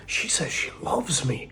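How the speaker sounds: imitating a smitten guy. Guy imagining her texts.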